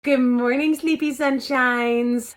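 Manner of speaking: slow sing-song morning greeting; sing-song wake-up. Acted. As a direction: coo it out slowly like waking kids. Parent gently waking the kids.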